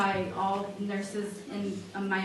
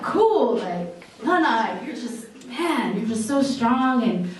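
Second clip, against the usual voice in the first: put-on childlike awe; 3 semitones higher, 3 dB louder, slower than usual. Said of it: "So I'm like".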